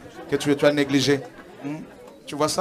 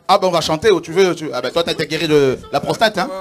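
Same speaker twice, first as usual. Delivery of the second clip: joyful teasing; 3 semitones higher, 11 dB louder than usual. Real, not acted. Pastor joking with healed brother.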